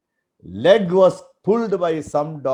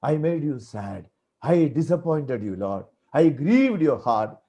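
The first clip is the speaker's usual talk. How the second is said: tearful prayer; 3 semitones lower than usual. Shown as a demonstration. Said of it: "let my eyes be wet with tears".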